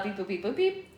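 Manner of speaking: censor with robot beeps; toy robot voice. Pretend. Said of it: "Robot beep boop".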